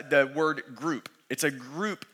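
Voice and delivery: slow, deliberate weight on "group"; "group" drawn out for emphasis; stress on group. Real, not acted. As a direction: lean on "group" and stretch it out. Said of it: "I just wanna emphasize".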